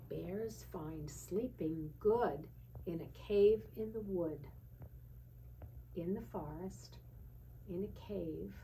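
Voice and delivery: sing-song picture-book reading voice; lilting storybook read-aloud, slowing on the bear lines; reading to children. Acted. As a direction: read it like a bedtime book for a toddler.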